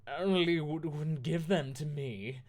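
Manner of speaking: lightly hammed-up complaint; shouted angrily. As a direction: Lupin shouting back at the narrator. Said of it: "Lumpkin shouted angrily".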